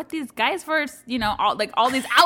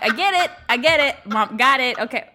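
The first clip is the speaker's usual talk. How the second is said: louder, fed-up "I get it"; exasperated mock retort; 6 dB louder than usual. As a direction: brush the kid off impatiently. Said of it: "I'm like".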